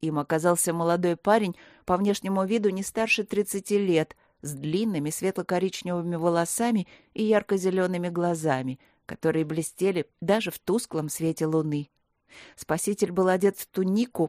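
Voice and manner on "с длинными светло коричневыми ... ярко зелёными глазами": ordinary delivery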